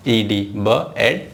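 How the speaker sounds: "ब एड" split into sounds, slowly; slow sounding out. Shown as a demonstration. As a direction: stretch each sound apart like a teacher. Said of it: "sound कैसे बोलना है आपको?". (धीरे-धीरे "ब एड" अलग-अलग बोलें)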